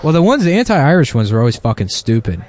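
ordinary delivery

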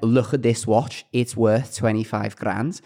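slow, imitated Scouse boast; Scouse accent. Scouse guy showing off his watch, imitated Scouse accent. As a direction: show off in a put-on Scouse accent. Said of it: "he was a Scouse guy".

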